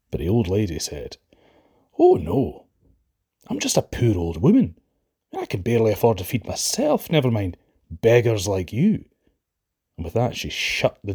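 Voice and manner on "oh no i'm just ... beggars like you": put-on old woman voice. Stingy old woman refusing beggars.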